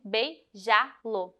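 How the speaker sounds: "beijá-lo" slowly, syllable by syllable, stress on "já"; "beijá-lo" broken up slowly for a class; stressed syllable demo. Shown as a demonstration. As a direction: draw out "beijá-lo" as bei-JÁ-lo. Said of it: "a última sílaba mais forte".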